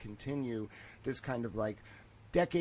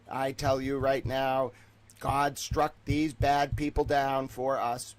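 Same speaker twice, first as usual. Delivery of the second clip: raised, emphatic mock speech to the masses; mock oratory; 4 dB louder than usual. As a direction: proclaim it like a hammed-up orator. Mock-solemn speech for his people.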